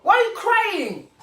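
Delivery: loud, high pourquoi tu pleures, tantine; mock exasperated scolding. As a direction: scold the crying aunt. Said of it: "Je dis".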